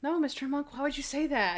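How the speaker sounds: high, innocent-sounding denial in imitation; lightly voiced Natalie. Voices Natalie answering Monk.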